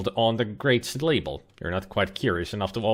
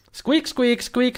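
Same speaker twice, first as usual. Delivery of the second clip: high squeaking critter voice; squeaky ferret; 11 semitones higher, slower than usual. Pretend. Voicing the ferret.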